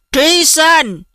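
proud owner summoning his dog; excited call. A narrator's reading. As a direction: call out the dog's name eagerly. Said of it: "Ông cụ của tôi hào hứng gọi tên tôi".

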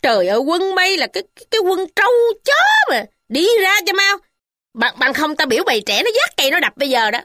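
put-on old lady screaming at the disloyal worker; screaming scolding. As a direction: chase the traitor out with abuse. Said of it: "bà ta hét vang rân mà mắng rằng".

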